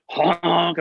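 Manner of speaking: just say the honk lightly; lighter honk. Retold or imitated. Student recalling the squawk, barely imitated honk. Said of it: "I sound like a beginner".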